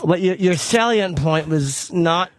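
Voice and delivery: tight-toothed put-on articulation; teeth held still. Showing the co-hosts his new character, stationary-teeth voice. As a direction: talk with only the lips moving. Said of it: "I can talk like that forever".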